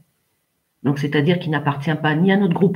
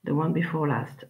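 "The one before last" repeated much softer; 7 dB quieter than usual. Shown as a demonstration. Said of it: "l'avant-dernier".

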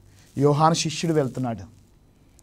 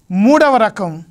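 louder and higher, calling out the heading; loud announcement; 4 semitones higher, 5 dB louder, much slower than usual. Acted. Preacher to congregation, announcing the third type, loud and high.

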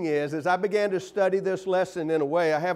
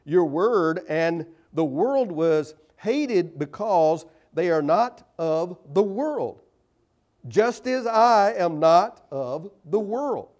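scripture reading; 6 dB louder, slower than usual. Acted. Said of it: "he says".

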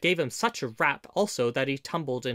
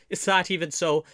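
higher, louder surprised question; cried out; 4 semitones higher, 6 dB louder than usual. A narrator's reading. Robin hearing the name Gamwell, crying out. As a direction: ask it eagerly, voice raised. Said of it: "cried Robin".

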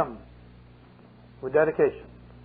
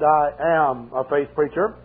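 drawn up with dignity; 2 semitones lower, slower than usual. Retold or imitated. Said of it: "I drew myself up".

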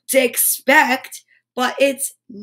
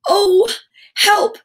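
high, loud cry for help; cross; 9 semitones higher, 5 dB louder than usual. A narrator's reading. Naughty left behind by the goblins, cross. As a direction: call out in a cross huff. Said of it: "said Naughty crossly".

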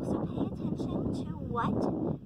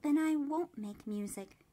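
defiant; 2 semitones higher than usual. Acted. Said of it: "said the littlest cricket defiantly".

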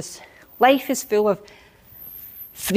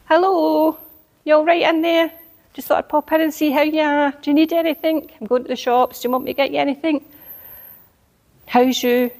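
cheery neighbour greeting; 4 semitones higher than usual. Retold or imitated.

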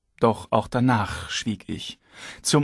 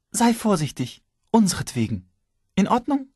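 wife's voice; 9 semitones higher than usual. A narrator's reading. Wife pleads.

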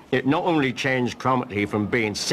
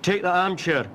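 higher, mock-doting fuss; fussing over the parrot; 7 semitones higher, slower than usual. Keeper mimicking how everyone dotes on the parrot. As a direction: coo over her like a pampered patient. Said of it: "when she's a bit poorly, it's".

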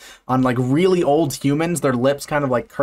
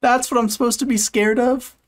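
incredulous; 10 semitones higher than usual. Real, not acted. Mocking the video's scary claim.

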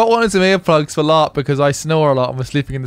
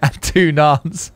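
laughing; much slower than usual. Real, not acted. Laughing while confessing.

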